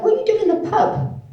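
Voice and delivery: high, loud shocked parent voice. Retold or imitated. Parents scolding her for going to the pub, high shocked voice. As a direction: mimic the parents' outraged question.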